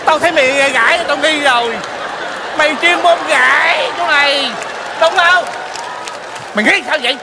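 indignant accusation. Acted. Sees through friend posing as mother.

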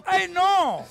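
high, loud singsong Chocó voice; Chocó accent. Acted. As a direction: ham up a high, lilting Chocó lady. (acento chocoano exagerado, agudo y fuerte)

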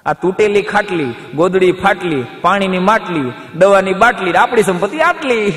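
a hint of a proud old villager reciting; sing-song list, building to the punchline; rhyming old uncle. Uncle listing his poor belongings, building rhyme.

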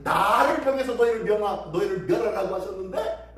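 lightly acted scoffing with bursts of emphasis; mocking, blaming. Envoy scoffs at Judah's trust in God, mild mockery. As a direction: scoff at their faith in disbelief. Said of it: "조롱하면서 비난하면서".

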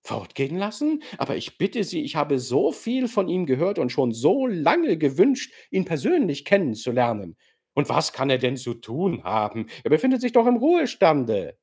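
neckend, verspielt und leicht höher; spöttisch-kokett den alten General umgarnen; kokette Gastgeberin. Acted. Nastassja protestiert verspielt. (Nastassja neckt den General, verspielt-kokett)

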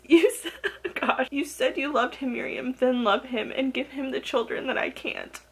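touched, lightly tearful quoting; retold crying plea. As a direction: read her tearful words with a catch. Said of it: "she's crying and just says".

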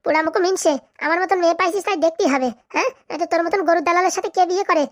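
wife tearing into her husband; mildly heated, indignant tirade; angry scolding. Acted. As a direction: scold with jabbing little "huh?" tags. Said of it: "তুমি রেগে যাচ্ছ কেন".

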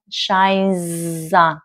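"shines on" drawn out and linked; "shines on" as one unbroken word; linked sounds. Shown as a demonstration. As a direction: hold the z of "shines" into "on". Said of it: "là nối âm".

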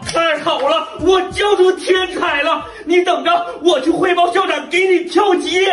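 excited. Acted. Teacher overjoyed shouting.

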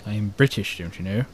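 a hammed-up posh British "don't you know"; mock British accent. Gamer joking to friends in a mock British accent. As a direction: put on a bad British accent. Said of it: "worst attempt at a proper British accent".

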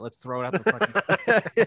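loud, slow mock yell, half-joking. Band member retelling how they trashed things, mock yelled. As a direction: bellow it like a reckless bandmate egging everyone on.

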